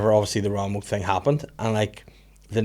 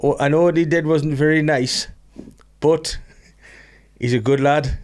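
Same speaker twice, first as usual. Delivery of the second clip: mock Gazza plea; 4 semitones higher than usual. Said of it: "one of the funniest lines".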